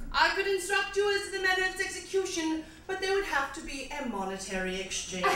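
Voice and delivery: slightly bad British poetry-reading voice; quasi British accent. Comic reads a song as poetry, slightly bad British accent. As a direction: recite it in mock-British English. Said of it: "slightly bad British accent".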